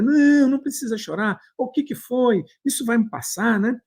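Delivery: high, gentle soothing voice; imagined comforting man. Retold or imitated. Imagined stranger soothing a crying child, high and gentle. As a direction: coax the crying boy kindly, pitched well up. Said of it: "vai dizer".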